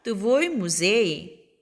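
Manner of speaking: very slow, syllable by syllable; slow model reading. Shown as a demonstration. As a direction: read it out slowly for the class. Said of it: "너의 박물관". (아주 천천히 또박또박)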